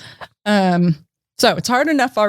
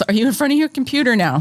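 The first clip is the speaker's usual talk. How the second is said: automated voice; 4 semitones higher, faster than usual. Retold or imitated. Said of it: "says the automated voice".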